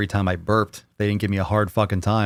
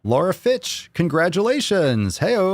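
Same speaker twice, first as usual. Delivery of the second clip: higher, slow, cheering winner call; excited announcement; 8 semitones higher, slower than usual. Real, not acted. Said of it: "announcing the winner".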